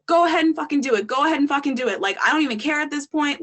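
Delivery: mildly heated, goading him on; defiant dare. Retold or imitated. Retold defiant dare to pimp.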